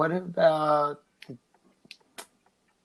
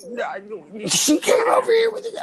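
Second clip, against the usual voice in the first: much higher, squeaky frantic defense; panicked; 5 dB louder than usual. Retold or imitated. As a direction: plead your innocence in a high panic. Panicked denial to angry cousin.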